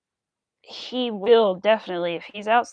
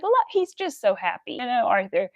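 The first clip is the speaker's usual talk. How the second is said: imagined owner. Pretend. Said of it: "he would be like".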